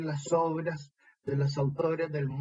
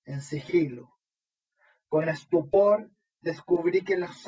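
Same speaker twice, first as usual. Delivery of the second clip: measured poem reading with pauses between phrases; poetry recital. Acted. Poet reads own poem to an online recital, measured declamation. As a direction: recite it line by line, lingering on key words.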